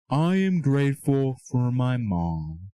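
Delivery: slow, dutiful recital of "I am grateful for my mom"; mechanical, unfelt gratitude; rote, empty thanks. Shown as a demonstration. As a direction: say "I am grateful for my mom" slowly, like a chore you don't feel. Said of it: "No, that's not the way you're supposed to do it".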